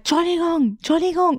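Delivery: a stranger calling after her on the train. Retold or imitated. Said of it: "kommt da hinter mir so ein Mann und schreit".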